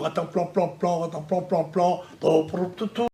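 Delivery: rhythmic "plan plan plan" sound imitation; imitated noises. Shown as a demonstration. Speaker mimicking a sound for listeners, imitated noises. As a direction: beat out nonsense syllables like a noise. Spelt-out nonsense noises, acted out.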